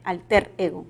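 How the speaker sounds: "alter" said as ÁL-ter, stress on the first syllable; teacher models "alter" as ÁL-ter. Shown as a demonstration. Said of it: "debería de pronunciarse".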